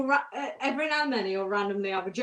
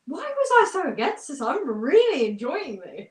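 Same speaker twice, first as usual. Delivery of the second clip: higher-pitched, swooping retold amazement; delighted disbelief; 5 semitones higher, 3 dB louder than usual. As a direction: act out being amazed you like it. Retells own delighted surprise.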